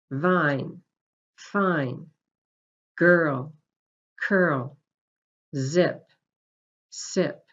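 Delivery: "Bit, pit" and "vine, fine" said clearly as pairs, one word at a time; voiced voiceless pairs. Shown as a demonstration. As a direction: contrast "girl" and "curl", first voiced then voiceless. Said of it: "listen and repeat these sounds after me".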